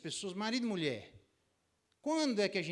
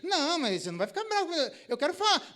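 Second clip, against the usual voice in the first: much higher, louder, fast and giggling; hammed-up giggling wife; teasing wife, laughing; 13 semitones higher, 11 dB louder than usual. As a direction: tease while barely holding laughter. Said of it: "memes na internet".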